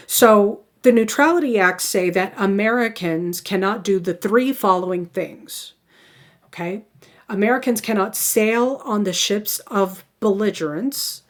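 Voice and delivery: measured, careful delivery for note-takers; deliberately slow. Real, not acted. Lecturer giving students the three rules, deliberately slow. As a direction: spell out each rule with pauses. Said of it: "I'm gonna try to say this slowly".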